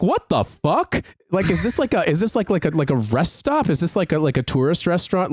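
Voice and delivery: retold disbelief, question after question; baffled reaction. Reacting to a tacky Americana bar in London, baffled.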